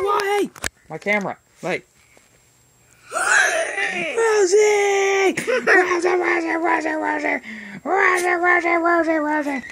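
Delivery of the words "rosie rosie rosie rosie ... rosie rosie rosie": excited calling. Real, not acted.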